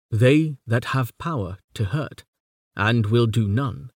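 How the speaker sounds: measured, weighty reading, stress on They; poetry reading. Acted. Reads sonnet line.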